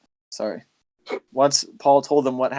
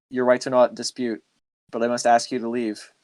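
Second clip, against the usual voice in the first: flat, toneless man in black; monotone. Retold or imitated. Man in black ordering UFO hunters away, flat monotone. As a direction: deliver it with no tone at all. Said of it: "his voice was monotone the whole time".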